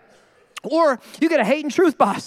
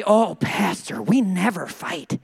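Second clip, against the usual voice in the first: slow, low, lightly voiced smug couple; cooing engaged couple; 8 semitones lower, much slower than usual. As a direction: drag it out as if above any fighting. Couple boasting in premarital counseling.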